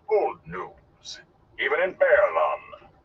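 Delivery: grandly unimpressed performer; dismissive. Acted. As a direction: wave the news away theatrically. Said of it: "the Gleeman said dismissively".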